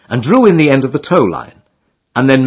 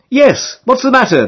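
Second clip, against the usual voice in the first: put-on much higher girlish call; girl shouting back; 11 semitones higher than usual. A narrator's reading. Girls on the towpath calling back to the boat, high puzzled shout. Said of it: "they shout back".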